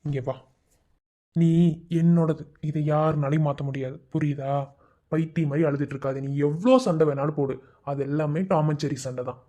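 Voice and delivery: tender reassurance. Acted. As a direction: comfort your wife gently. Husband tenderly reassures wife.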